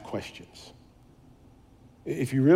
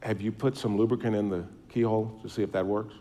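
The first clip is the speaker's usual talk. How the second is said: softly, a touch quieter, imitating his wife's gentle question; a mild hint of the wife's gentle tone; gentle suggestion; 3 semitones lower, 6 dB quieter than usual. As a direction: ease the idea in gently, lightly voiced. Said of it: "my wife very gently said".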